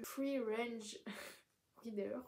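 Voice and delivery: English words in a French accent, drawn out with a laugh. Real, not acted. Vlogger amused by her own English term, French-accented English. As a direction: stumble slowly through English with a French accent. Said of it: "Désolée avec mon accent anglais".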